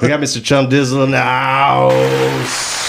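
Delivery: slow drawn-out hype intro; emcee announcer. Acted. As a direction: announce him like a ring MC.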